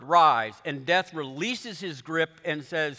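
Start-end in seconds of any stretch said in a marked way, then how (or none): 0.0-0.5 "Rise" said as one loud command; commanding loud word. Acted. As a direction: order it loudly, the way you'd order a dog. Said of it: "He says one word".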